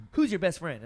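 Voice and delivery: high and loud, hammed-up surprise; a mock-startled father asking his son; mock dad gasp. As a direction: gasp then ask it like a hurt dad. Dad's gasping question.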